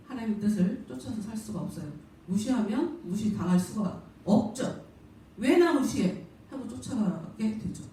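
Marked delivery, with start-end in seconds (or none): 5.4-6.3 higher, mildly acted indignant challenge; mock indignant question; indignant retort. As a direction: act out an offended comeback, pitched up. Retort to being ignored.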